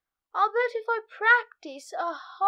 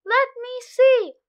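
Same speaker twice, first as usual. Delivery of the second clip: 1 eager; 3 semitones higher, 7 dB louder than usual. A narrator's reading. Eager kid grabbing phone.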